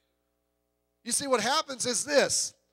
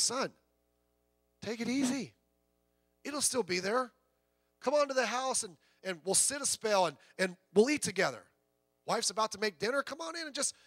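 put-on softer, gentle old farmer inviting the boy in; kindly old farmer; 5 dB quieter than usual. Preacher voicing the old farmer calming the boy, softly. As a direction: soothe him like a kindly old neighbor.

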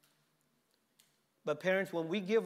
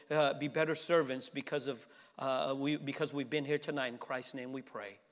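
prayer. Real, not acted. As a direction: pray it humbly to God. Closing prayer.

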